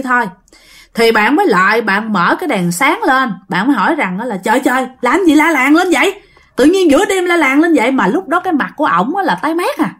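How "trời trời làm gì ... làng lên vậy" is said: higher-pitched, mildly alarmed retold question; startled questioning. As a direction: act out a rattled "what's all the yelling?" reaction. Startled niece or nephew questions screaming uncle.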